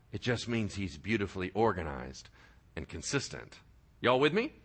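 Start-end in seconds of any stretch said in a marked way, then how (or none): 0.1-3.6 hushed echo. Shown as a demonstration. Preacher echoing his point to the congregation, in a hushed murmur. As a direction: drop way down softer and lower, almost to a murmur. Same phrase echoed much softer.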